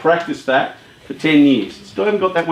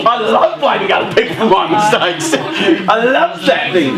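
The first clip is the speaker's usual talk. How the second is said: mock confession; 7 semitones higher than usual. Mocking agreement with audience joke.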